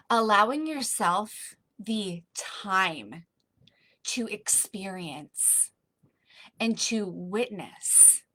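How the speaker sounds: slow, drawn-out phrases with a whispered middle; slow meditative guidance. Acted. Coach easing the group into patience, slow meditative voice. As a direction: linger on each phrase.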